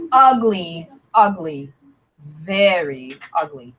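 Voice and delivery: sinking sing-song taunt; taunting kids. Acted. Classmates mildly taunting Stephanie. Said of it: "the other kids looked at her and said".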